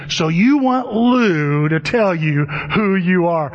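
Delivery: slow, drawn-out mock question; incredulous therapist. Therapist questions Dave before the group, slow imitated incredulity. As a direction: stretch each key word in lightly imitated disbelief. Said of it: "He goes".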